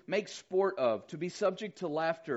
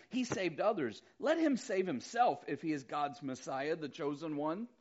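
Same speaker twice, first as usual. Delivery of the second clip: sneering mockery. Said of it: "looking down their nose saying".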